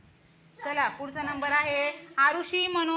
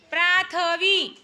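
calling out; 3 semitones higher, 3 dB louder, much slower than usual. Real, not acted. Teacher calling the next pupil.

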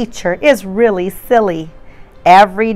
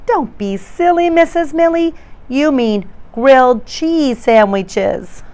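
put-on children's chorus; 5 semitones higher than usual. Children correct the teacher.

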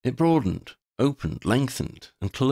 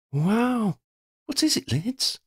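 amazed wonder; 13 semitones higher, slower than usual. Acted. Sophie marvels at the light.

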